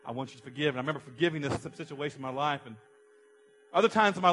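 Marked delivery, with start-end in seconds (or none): 0.0-0.7 God speaking gently. Retold or imitated. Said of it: "he spoke to me and said".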